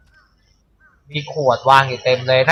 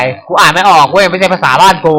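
silly dumb pet voice; 3 semitones higher, 4 dB louder than usual. Pretend. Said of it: "ถ้าเกิดแมวพูดได้ มันคงพูดในใจ".

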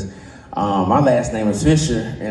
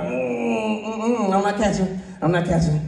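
high squeal; 8 semitones higher, 5 dB quieter than usual. Pretend. Imagined refusal acted.

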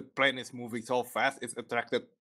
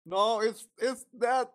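rising shock, voice climbing high; real startled disbelief; 8 semitones higher, 4 dB louder, slower than usual. Real, not acted. Shocked by anime plot twist.

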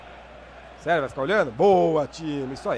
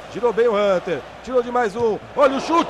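excited shot call; 4 semitones higher, 4 dB louder than usual. Real, not acted. Near goal chance.

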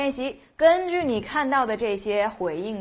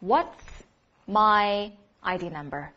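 slow model sentence. Shown as a demonstration. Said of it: "应该变成".

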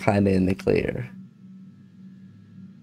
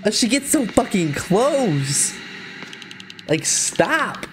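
high, panicked pleading; scared horror game streamer; 6 semitones higher than usual. Real, not acted. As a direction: beg the character to run. Monster close, streamer panics.

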